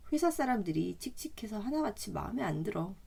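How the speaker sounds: ordinary talk, nothing marked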